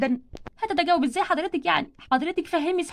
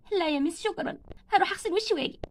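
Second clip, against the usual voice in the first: soft and subdued, softer; quiet; 6 dB quieter than usual. Acted. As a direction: politely refuse while tearful. Barbie declines teacher's help.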